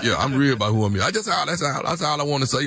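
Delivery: lightly voiced country smooth talker, laid-back; a hint of a boastful country guy at home; country boyfriend. Phony man voice continues.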